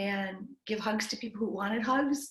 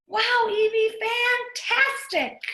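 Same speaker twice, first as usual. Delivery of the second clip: high, slow, delighted praise; excited cheer; 13 semitones higher, 9 dB louder, much slower than usual. Acted. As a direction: cheer her on, drawing it out. Everyone cheers the child.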